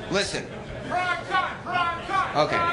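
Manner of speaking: ordinary delivery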